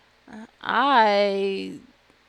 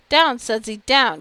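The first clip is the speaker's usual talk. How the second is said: louder scolding of the dog; stern command; 2 semitones higher, 6 dB louder than usual. Acted. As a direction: bark the order at the pet.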